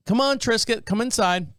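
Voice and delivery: a hint of calling a pet indoors; imitating wife calling. Wife goes outside for the missing cat, imitated calling.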